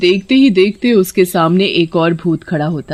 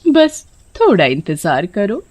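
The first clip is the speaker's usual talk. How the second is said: playfully flirty wife; coquettish; 3 semitones higher than usual. Acted. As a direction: coo to the husband, teasing. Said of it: "पत्नी अदा दिखाते हुए". (अदा दिखाते हुए)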